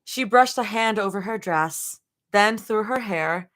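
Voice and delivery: measured storytelling read-aloud; lightly performed audiobook narration; story narration. A narrator's reading. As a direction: narrate in short, deliberate phrases. Reads fan fiction aloud.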